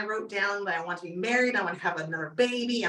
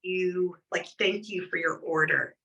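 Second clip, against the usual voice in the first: quick offhand thank-you, lower; rushed perfunctory thanks; 5 semitones lower, 3 dB quieter than usual. Shown as a demonstration. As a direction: toss the thanks off without meaning it. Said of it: "Like, genuinely".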